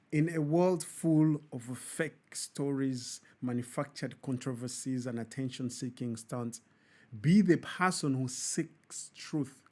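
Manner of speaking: preachy sign-off. Acted. Host preaching to viewers in a solemn sermon tone. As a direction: deliver it like a closing sermon. Closing food-for-thought message.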